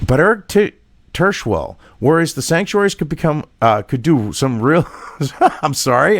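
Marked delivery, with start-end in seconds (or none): 3.6-4.9 laughing. Real, not acted. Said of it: "I can't say that without laughing". 5.1-5.6 laugh. Real, not acted. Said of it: "I can't say that without laughing".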